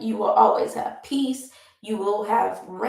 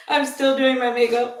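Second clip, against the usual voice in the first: words bubbling through real laughter; laughing; 2 semitones higher than usual. Real, not acted. To viewers while doing makeup, laughing. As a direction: laugh your way through the line. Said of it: "I'm laughing because I'm still".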